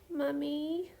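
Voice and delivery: put-on a calmed baby murmuring for mummy; sobbing toddler. A narrator's reading. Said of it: "turning her little whimpers".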